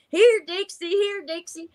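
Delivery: high, sing-song call for the dog; husband calling his dog around the house. Retold or imitated.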